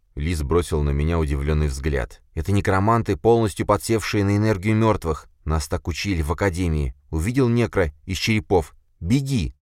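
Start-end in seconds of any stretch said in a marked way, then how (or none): 2.3-9.5 higher, anxious sidekick voice; urgent, jittery friend pleading; nervous young man. Acted. (нервный молодой парень)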